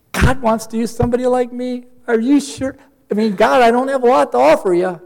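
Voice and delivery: astonished disbelief. Retold or imitated. Disbelief that God would use him.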